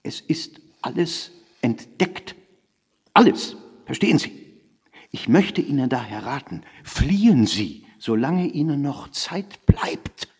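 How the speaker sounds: hushed, deliberate phone warning; anonymous caller urging someone to flee; ominous warning. A narrator's reading. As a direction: give a grave, secretive warning, drawing out the key words. Acted anonymous warning on the telephone.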